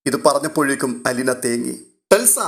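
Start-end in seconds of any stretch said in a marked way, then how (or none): 2.1-2.4 sharp call down the corridor; aunt calling the child back, loud. Acted. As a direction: call the girl's name loudly. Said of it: "വിളി കോറിഡോറിൽ ശക്തമായി മുഴങ്ങി".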